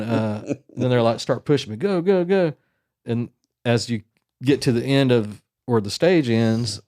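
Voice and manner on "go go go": retold urging. Guards hurrying her along.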